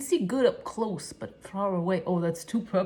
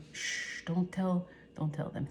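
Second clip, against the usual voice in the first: whispered shush, then softer; hushed secret; 6 dB quieter, slower than usual. Retold or imitated. Father hushing her about the sisters, whispered. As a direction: hush it like a secret. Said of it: "That's what he said".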